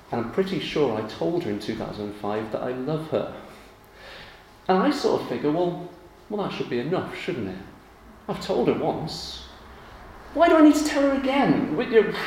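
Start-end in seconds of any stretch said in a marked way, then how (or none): 4.7-12.1 mock indignant. Mock indignant husband on anniversary.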